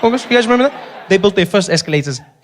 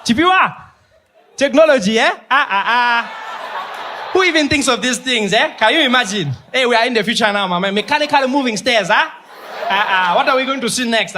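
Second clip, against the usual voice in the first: put-on amazed old-timer; 5 semitones higher than usual. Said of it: "like I had gone in a time machine".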